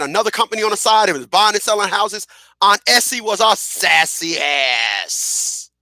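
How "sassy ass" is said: sassy shout. Acted. Punchline about sassy aunt.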